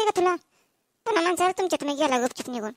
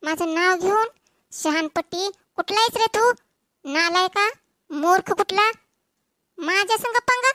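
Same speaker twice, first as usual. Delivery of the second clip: angry scolding; 3 dB louder than usual. Acted. Woman scolds singer for teasing.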